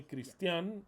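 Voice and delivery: "Christian" with the accent moved onto the final A; stress on the A. Shown as a demonstration. Speaker showing how some viewers miscall his name, "Christian" stressed on the A. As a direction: misplace the stress in "Christian" onto its last syllable. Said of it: "an accent mark in the A".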